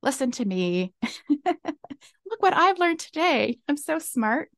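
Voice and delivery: half-laughing, slow boast of a know-it-all; mock smug know-it-all. Mocking her younger self to listeners, playful smug boast. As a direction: play your past self as a cocky know-it-all, laughing at it. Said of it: "I'm like".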